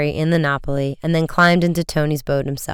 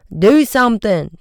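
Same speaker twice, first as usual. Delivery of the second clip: high, loud alarmed cry; louder, higher frightened plea; panicky cry; 6 semitones higher, 5 dB louder than usual. A narrator's reading. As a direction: urge them in a panic. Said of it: "Chet cried".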